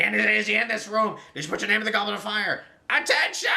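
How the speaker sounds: imitating a frantic, shouty Dumbledore, ending in a high yell; a hammed-up Dumbledore barking at the students; mock Dumbledore shouting. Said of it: "shouting at everybody".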